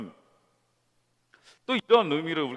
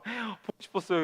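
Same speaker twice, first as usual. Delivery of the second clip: 아이 흉내; 8 semitones higher than usual. Retold or imitated. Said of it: "보통 아이라면".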